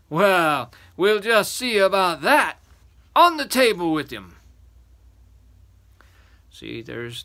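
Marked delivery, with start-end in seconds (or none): 0.1-4.4 loud, raised giant command; menacing giant. Acted. Third giant ordering the boy onto the table, menacing.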